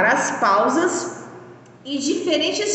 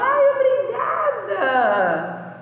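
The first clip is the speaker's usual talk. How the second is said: delighted thanks; 7 semitones higher than usual. Shown as a demonstration. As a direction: thank someone for a gift. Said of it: "você fica super feliz e fala".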